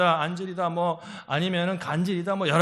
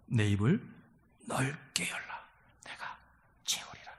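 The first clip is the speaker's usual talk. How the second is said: hushed scripture; 8 semitones lower, 8 dB quieter, slower than usual. Acted. Quoting Psalm softly.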